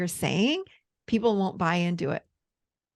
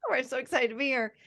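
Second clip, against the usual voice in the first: excited greeting; 3 semitones higher, 5 dB quieter, faster than usual. Retold or imitated. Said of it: "I'm like".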